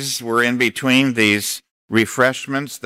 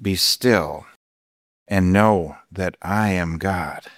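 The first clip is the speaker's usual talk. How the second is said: voice of God; 4 semitones lower than usual. Retold or imitated. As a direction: speak as God calming the pastor. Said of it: "And God says".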